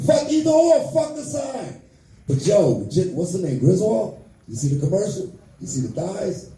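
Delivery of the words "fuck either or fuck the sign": high yelled rant, cut off on the last word; ranting shout. Acted. Comic fed up with yard signs, ranting shout. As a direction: bellow it at the signs like you're fed up.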